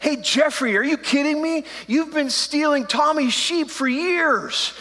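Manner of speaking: slowing down to nail him with it; mock call-out. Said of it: "I would have looked at them and was like".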